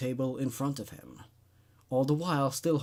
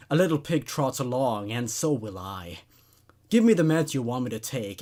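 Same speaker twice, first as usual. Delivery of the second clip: louder, rising menace; a patient mocking his psychiatrist, louder and menacing; menacing rant; 2 semitones higher, 5 dB louder than usual. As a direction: taunt the doctor with growing anger. Edward's menacing rant at doctor.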